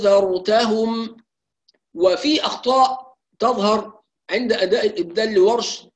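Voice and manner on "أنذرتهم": slow, long madd on أنذرتهم with six-count alif; تلاوة بطيئة بمد ست حركات; correct Warsh ibdal. Shown as a demonstration. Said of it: "فنقول".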